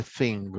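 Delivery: "thing" ending on ng, cut midway. Shown as a demonstration. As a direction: stop the nasal at the end of "thing". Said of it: "cortamos allí en mitad de sonido". ("thing" con la ng cortada)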